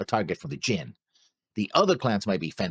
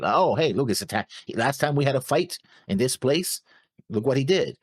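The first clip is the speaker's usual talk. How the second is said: a hint of a hammed-up accuser, pitched up; mock outraged clan elder; 6 semitones higher than usual. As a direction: play a self-righteous accuser rousing the crowd.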